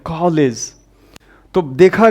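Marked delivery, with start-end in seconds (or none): 0.0-0.7 कॉलेज with the open English o of college; English pronunciation. Shown as a demonstration. Teacher showing how the English say college, the open vowel. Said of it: "कॉलेज करके बोलते हैं".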